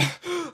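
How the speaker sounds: sharp gasp for air; breathless gasp. Real, not acted. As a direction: gasp like you just sprinted. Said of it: "I'm out of breath".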